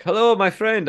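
high, sing-song hustler's greeting; pushy street dealer. Retold or imitated. Drug dealer greets from car.

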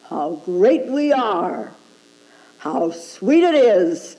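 slow, self-satisfied gloating; lightly mocked ego boasting; smug ego. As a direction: savor your own greatness, mockingly.

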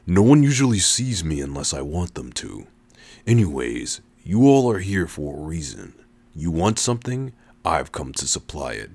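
a touch of a deep, hidden stranger; deep mysterious voice. Acted. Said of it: "his deep voice enveloping us".

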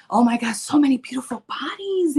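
unvoiced, breathy admiration; hushed envious awe; awed whisper. Real, not acted. Admiring others' bodies.

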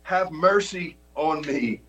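high, pleading cry; narrated shout. A narrator's reading. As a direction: lift the pitch and plead. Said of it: "he only shouted louder".

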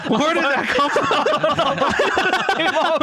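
high-pitched laughter through words; can't stop giggling; laughing. Real, not acted. Cracking up at own voice.

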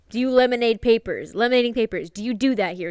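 serious attitude. Retold or imitated. Impatient customer pressing the shop worker, serious attitude. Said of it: "he's catching a serious attitude with me".

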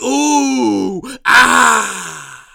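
long drawn-out "ooh" and "ah"; mock judges' reaction. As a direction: imitate a panel oohing and aahing. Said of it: "the judges were like".

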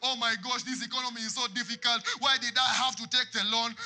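mock crying complainer. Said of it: "crying and saying".

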